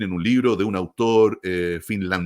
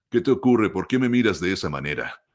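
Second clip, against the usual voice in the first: a demo line read in neutral Latin American Spanish, as a dubbing actor would; neutral Latin American accent; 2 semitones lower than usual. Shown as a demonstration. Audiobook producer demonstrating the neutral Latin American accent for a publisher. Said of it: "Eso es el acento latinoamericano neutro".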